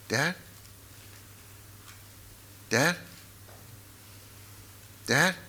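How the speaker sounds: hushed question with long waits; small, rising, uncertain call; tentative calling. Retold or imitated. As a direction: call softly for a reply that isn't coming. Retold checking on unresponsive father.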